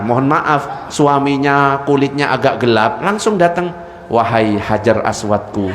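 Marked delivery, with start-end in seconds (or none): 4.1-5.7 low, hushed mock-loving greeting; mock romantic husband call. Wife teasing her dark-skinned husband, low mock croon.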